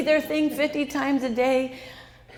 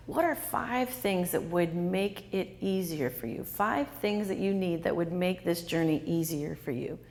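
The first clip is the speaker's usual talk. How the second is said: caring question; 5 semitones lower, 4 dB quieter than usual. Shown as a demonstration. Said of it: "I'm gonna ask them very specifically".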